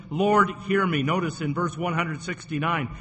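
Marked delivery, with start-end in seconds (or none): 0.1-1.0 louder, emphatic "Lord, hear me" with "Lord" hit hard; David crying out. Acted. Pastor voicing David crying to God, louder plea. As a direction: call it out to God, pleading and loud. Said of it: "First of all, he says".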